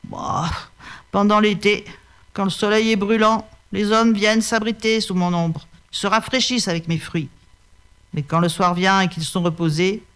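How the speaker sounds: put-on a touch of weariness from an old fig tree; tired, resigned fig tree; lightly voiced weary tree. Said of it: "dit d'une voix lasse".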